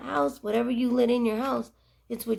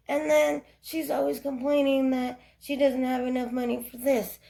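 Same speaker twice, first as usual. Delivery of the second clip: griping husband; 4 semitones higher than usual. Retold or imitated. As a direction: vent like a fed-up husband. Husband's complaints voiced in story.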